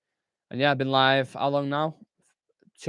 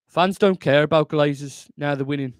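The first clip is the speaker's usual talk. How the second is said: Gabriel Agbonlahor; 5 dB louder than usual. Acted. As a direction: put on a shaky attempt at Brummie. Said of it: "do that in a Gabriel Agbonlahor accent".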